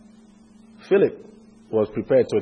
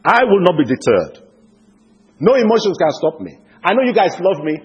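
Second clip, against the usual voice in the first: raised, high-pitched firm refusal; resolute conviction; 5 semitones higher, 4 dB louder than usual. Acted. Paul refuses his pleading friends, resolute conviction. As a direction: declare it forcefully, pitch up. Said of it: "So Paul had this conviction".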